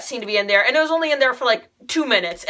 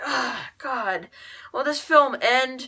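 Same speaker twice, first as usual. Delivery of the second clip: bored groan; slower than usual. Retold or imitated. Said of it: "I found it super boring".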